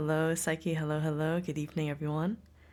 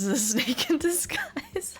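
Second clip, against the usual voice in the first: whisper; 10 semitones higher than usual. Real, not acted. Joking about bunny tattoo.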